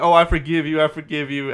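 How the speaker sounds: half-hearted mock throes of passion; mock climaxing woman. Retelling a joke about a forgiving girlfriend, mock climax. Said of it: "as she's, like, climaxing".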